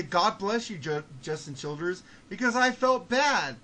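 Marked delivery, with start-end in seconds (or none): 0.0-2.0 put-on soft, forced politeness for "Justin Childers"; a quiet, strained blessing through annoyance; trying to be nice. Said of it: "I tried to be nice and say".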